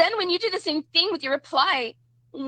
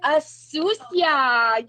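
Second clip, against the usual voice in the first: slow, stretched-out jab; drawn-out taunt; much slower than usual. Real, not acted. Streamer taunting a live opponent over "Sucia", drawn-out taunt. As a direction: draw the words right out. Taunting repeat of a Spanish insult.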